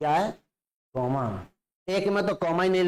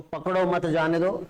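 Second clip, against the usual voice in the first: "पकड़ो मत जाने दो" in one even run; no comma pause. Shown as a demonstration. Teacher contrasting readings for students, first with no break. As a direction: say "पकड़ो मत जाने दो" without stopping. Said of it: "थोड़ा सा रुक के बोलना है".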